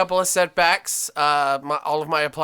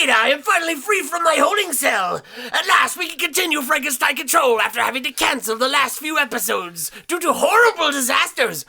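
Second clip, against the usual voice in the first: higher theatrical villain voice; hammy supervillain voice; 8 semitones higher than usual. Acted. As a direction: play the grand supervillain host. Villain host persona.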